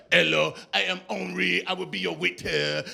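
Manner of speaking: put-on French waiter accent. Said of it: "the waiter comes over".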